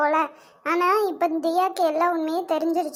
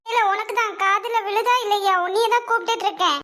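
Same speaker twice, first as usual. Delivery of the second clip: higher-pitched motherly scolding; impatient calling out; 4 semitones higher than usual. Acted. Mother calling her unresponsive son, impatient and higher. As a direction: call out, demanding his attention.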